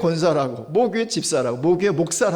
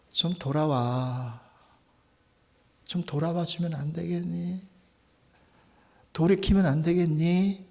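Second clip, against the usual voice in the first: coaxing plea. Acted. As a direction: gently coax them home. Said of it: "얼레고 달래고".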